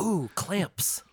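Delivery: high, thrilled gasp at the clamps; delighted ooh. Retold or imitated. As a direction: swoon over the clamps. Delighted shopper finding clamps.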